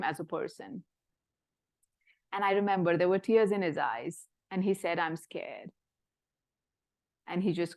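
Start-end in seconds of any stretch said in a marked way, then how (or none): 5.0-5.7 soft, fragile admission of fear, much softer; a frightened patient barely voicing it; quietly scared. Patient tells his doctor in the ICU, softly scared.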